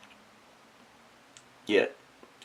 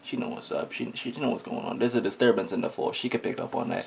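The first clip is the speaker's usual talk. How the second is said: softer, hushed confiding aside; quiet aside; 6 dB quieter than usual. Retold or imitated. Telling the audience about mom, hushed aside. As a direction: lean in and say it under your breath. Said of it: "And I'm just like".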